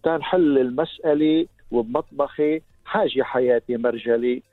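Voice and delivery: slow, measured poem delivery; poem recitation. Acted.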